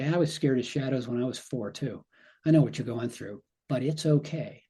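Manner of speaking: gentle comfort. Shown as a demonstration. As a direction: reassure her like a parent would. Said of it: "you have this different kind of energy".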